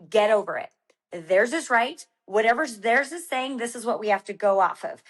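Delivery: firm, serious retold order; stern husband. Husband correcting his wife about race timing, stern. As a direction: imitate a no-nonsense coach laying down facts. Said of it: "be as stern as he was".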